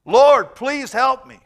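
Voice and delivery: loud, slow, pleading cry; desperate plea. Acted. The Canaanite woman begging Jesus on her knees, loud and slow. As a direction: beg at full voice, stretching each word.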